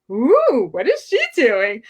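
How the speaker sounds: mock the nosy busybodies; gossiping yentes, mock-shocked; gossiping heads. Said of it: "talking heads going".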